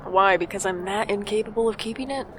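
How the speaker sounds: defensive why. Acted. Micah defensively answering the sister's jab. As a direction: fire it back, offended.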